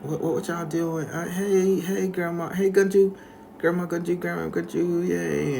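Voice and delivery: put-on high, bouncy childlike greeting; slow girl voice. Slow twin greeting grandma, high childlike voice. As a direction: play the slow twin, sing-song and high. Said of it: "she was slow again".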